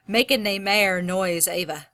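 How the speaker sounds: lightly Scottish-accented poem reading. Shown as a demonstration. Teacher reading a Scottish dialect poem to the class, light Scottish accent. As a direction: read it aloud with a slight Scottish lilt. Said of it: "I wasn't trying to have an accent".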